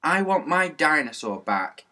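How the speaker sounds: a lightly voiced small boy yelling; little boy yelling for his lost toy. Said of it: "yelled little Harry".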